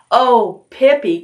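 high exclamation, falling at the end; excited cry. A narrator's reading. Annika greeting Pippi after the bull ride, crying excitedly. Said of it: "cried Annika excitedly".

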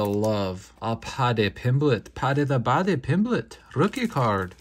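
amateur put-on English accent; terrible English accent. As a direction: do a bad English accent with relish. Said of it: "Excuse my terrible English accent".

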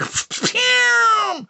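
drawn-out high mouth-made zap; high zapping "pew". Acted. Comic dismisses the profile with a long zap. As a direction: fire a long falling laser sound.

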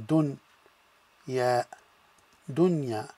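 "dun" closed, "ya" open, then "dunya"; syllable by syllable. Shown as a demonstration. Teacher sounding out a word for students. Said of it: "so we'll say".

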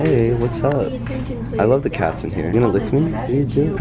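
cooing at cats. Real, not acted. Greeting a shelter cat up close, light cooing. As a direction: coo gently at a friendly cat.

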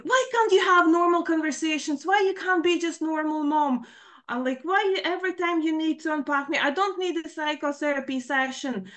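high, exasperated complaints; upset daughter lashing out at her mom, high-pitched and exasperated; daughter's angry outburst. Retold or imitated. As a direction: demand she stop analysing you.

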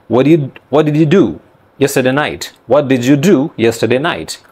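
run-together American-style question; American accent. Shown as a demonstration. Teacher asking a friend about last night, American accent. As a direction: say it casually the American way. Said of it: "if I ask my friend".

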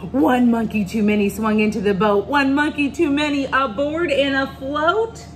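punchy, rhythmic read-aloud; story reading to children. A narrator's reading. Reader tells children of crowded canoe, lively storytelling. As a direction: push the rhyme along with excitement.

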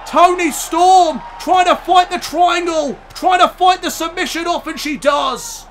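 strained, hoarse commentator voice. Real, not acted. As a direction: push through a worn-out, hoarse voice. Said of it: "I am losing my voice".

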